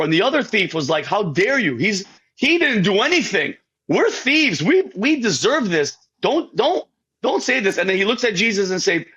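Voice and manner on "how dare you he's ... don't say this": retold indignant rebuke. Acting the thief rebuking the other.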